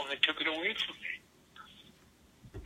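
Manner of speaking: slow, breathy whisper of loss; whispered lament. Retold or imitated. A singer telling Larry his fairy-tale life was taken, slow whisper. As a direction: let it fall to a slow whisper.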